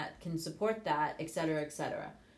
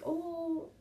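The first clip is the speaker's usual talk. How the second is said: taken aback; 9 semitones higher, 5 dB quieter than usual. Retold or imitated. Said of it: "And I'm like".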